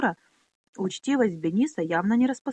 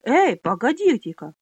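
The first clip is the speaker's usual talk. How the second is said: loud, high call to stop; loud interjection; 4 semitones higher, 7 dB louder than usual. Acted. Trader calls out loud to stop the fight. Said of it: "громко вмешался кожевник".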